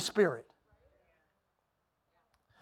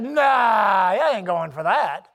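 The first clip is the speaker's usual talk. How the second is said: dismissive refusal; 3 semitones lower, 4 dB louder, much slower than usual. Retold or imitated.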